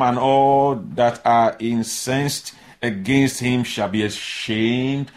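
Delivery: unhurried verse read; slow solemn reading. Acted. Preacher reading Isaiah, slow solemn. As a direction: read the verse slowly, with weight.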